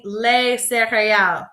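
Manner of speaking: les céréales said clearly with a falling end; slow model pronunciation. Shown as a demonstration. Teacher leading a class repeat, careful French. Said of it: "say this word with me".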